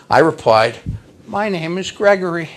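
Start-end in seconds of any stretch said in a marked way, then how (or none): 1.3-2.5 put-on high, shy little-boy voice; imitated small boy, shyly courteous; shy but polite. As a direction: answer politely, like a timid child. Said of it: "shyly but politely".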